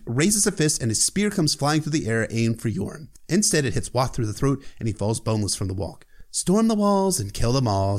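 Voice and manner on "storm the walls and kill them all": bored. Retold or imitated. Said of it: "said in a bored voice".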